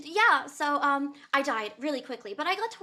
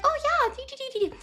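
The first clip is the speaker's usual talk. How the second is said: evasive singsong; 11 semitones higher than usual. Retold or imitated. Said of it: "I was like".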